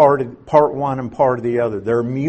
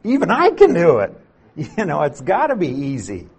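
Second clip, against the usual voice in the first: Dave quoted; 4 semitones higher, faster than usual. Retold or imitated. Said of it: "and he said".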